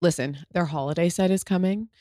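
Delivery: upbeat sponsor read, easy and chatty. Acted. Host pitches Ghia to listeners, breezy ad read. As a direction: sell the drink like a friend's tip.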